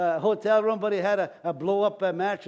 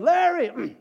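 sudden high, booming yell; voice of God calling; 9 semitones higher, 6 dB louder than usual. Retold or imitated. The Lord calls a man chopping wood, booming shout. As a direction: bellow the name from on high. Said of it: "The Lord said to him".

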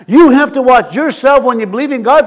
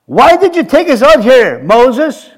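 higher-pitched acted complaint; complaining; 4 semitones higher, 3 dB louder than usual. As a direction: imitate a grumbling follower confronting a leader. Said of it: "another word is complaining".

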